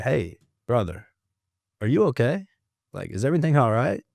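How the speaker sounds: genuine concern. Retold or imitated. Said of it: "Like, genuinely, not being a smart ass".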